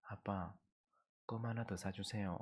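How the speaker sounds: soft, slow coaxing little plea; hushed slow wheedle; wheedling child. Retold or imitated. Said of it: "본색을 드러내는 거예요".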